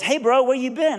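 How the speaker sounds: high, drawn-up casual greeting; calling out. Retold or imitated. Friend on the phone to missing preacher, casual high greeting. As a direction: pitch it up like hailing a buddy.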